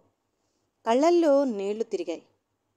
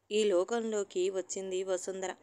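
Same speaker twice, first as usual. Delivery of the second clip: usual speaking voice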